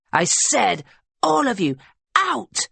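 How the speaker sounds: rising to a high, furious scream. A narrator's reading. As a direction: scream them out of the house. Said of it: "Victoria screams".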